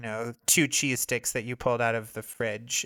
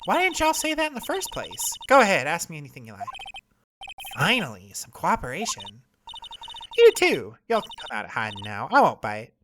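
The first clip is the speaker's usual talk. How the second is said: Southern photographer; 4 semitones higher than usual. Acted. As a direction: scold them like an offended country gal. Voices Lotta.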